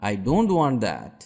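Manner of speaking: slow model phrase. Shown as a demonstration. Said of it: "আমি ওটা চাই না".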